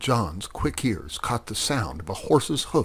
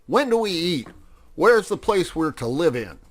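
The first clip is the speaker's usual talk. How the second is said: high, raised-voice clamour; excited shouting; 8 semitones higher, 5 dB louder than usual. A narrator's reading. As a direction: clamour eagerly like newly arrived mice. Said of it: "they shouted".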